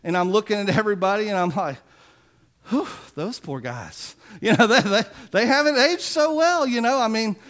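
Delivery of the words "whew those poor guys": mock pity.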